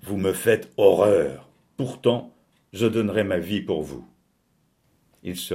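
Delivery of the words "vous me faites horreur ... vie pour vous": grandiloquent. A narrator's reading. Narrator bidding the departing couple farewell, grandiloquent. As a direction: declaim it with pompous weight. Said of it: "d'un ton grandiloquent".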